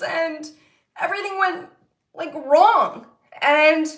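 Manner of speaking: holding back tears while telling it; real emotion rising, voice lifting and wavering; getting emotional. Real, not acted. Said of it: "I'm getting a little emotional".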